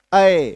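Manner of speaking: अय as an open a gliding towards y; double-matra vowel. Shown as a demonstration. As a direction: glide down through अय. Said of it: "double एकार की मात्रा को जन्म देते हैं".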